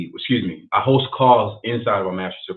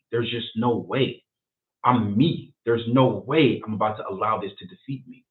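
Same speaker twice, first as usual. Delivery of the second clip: retold vow, a little raised and firmly stressed; defiant resolve; 3 semitones higher, 3 dB louder than usual. Host retells his decision on a dark day, with firm resolve. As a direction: declare it like a personal vow.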